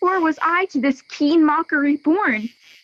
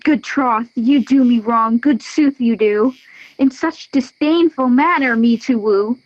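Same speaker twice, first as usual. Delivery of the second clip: angry; 3 dB louder than usual. Acted. Helena scorned, growing angry.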